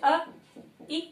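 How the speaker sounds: अ, इ each cut very short; short vowels. Shown as a demonstration. Teacher showing vowels that take the least time, very short. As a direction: say अ and इ as brief single beats. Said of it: "बहुत कम समय में हर्ष स्वरों का उच्चारण".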